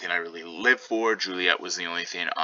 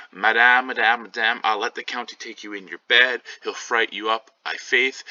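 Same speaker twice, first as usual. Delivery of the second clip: higher, calling Madame louder; 4 semitones higher, 4 dB louder than usual. Acted. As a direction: call to wake her, teasing. Nurse calling to wake Juliet.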